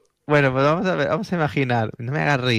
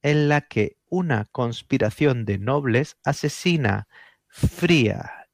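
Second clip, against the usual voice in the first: deliberate radio storyteller with weighty pauses; dramatic late-night documentary intro; suspense story narration; 2 semitones lower, slower than usual. Acted. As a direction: build to a slow, solemn reveal.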